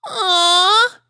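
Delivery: high, loud adoring aw; young filly's high coo. A narrator's reading. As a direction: coo over puppies. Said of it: "cooed Sweetie Belle".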